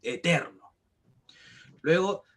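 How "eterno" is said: "eterno" low, with TER stretched out; slow low demo of "eterno", weight on TER; stress on middle syllable. Shown as a demonstration. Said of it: "cargar más nuestra voz".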